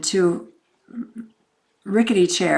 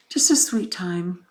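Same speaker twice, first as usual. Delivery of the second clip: tender. Real, not acted. Tender repeat.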